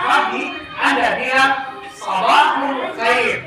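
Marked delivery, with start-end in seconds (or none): 1.9-3.4 very slow, every syllable drawn out; teacher modelling the Arabic reply slowly; slow drill. Shown as a demonstration. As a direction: lay out sabahul khair slowly to repeat.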